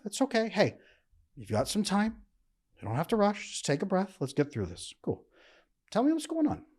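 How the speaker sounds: a partner softly calming an upset woman, gentle and soothing. Acted. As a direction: talk her down from being upset, softly. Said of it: "you're upset, and he goes".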